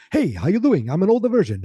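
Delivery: high-pitched mock old grouch; imitating an older curmudgeon. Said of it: "just an older curmudgeon-y guy".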